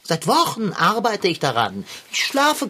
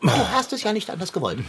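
schnell und laut herausgerufen; drohender Ausruf; 2 semitones higher, much faster than usual. Acted. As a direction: trotzig loslegen, wie angekündigt. Kater droht und legt los. (Kater droht dem Radschrauber und ruft laut)

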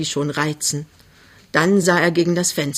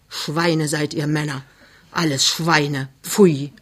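grumbling anger; 2 semitones lower, slower than usual. Acted. Mother condemns all men, grumbling. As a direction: grumble it in disgust, then spit out the last word. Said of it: "Plötzlich grollt sie wieder".

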